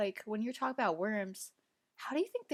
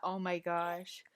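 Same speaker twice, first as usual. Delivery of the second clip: whispering; 3 semitones lower, 6 dB quieter, slower than usual. Real, not acted. Reacting to silkworms, unvoiced.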